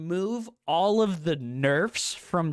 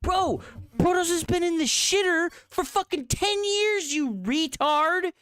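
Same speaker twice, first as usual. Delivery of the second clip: angry rant; 11 semitones higher than usual. Real, not acted. Streamer berating a Protoss player, heated high yelling. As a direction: tear into him, voice cranked up. Ranting at a Reddit poster.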